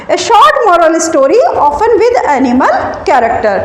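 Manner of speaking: slow, word by word for note-taking; slow dictation. Shown as a demonstration. Teacher dictating a definition to students, slowly and deliberately.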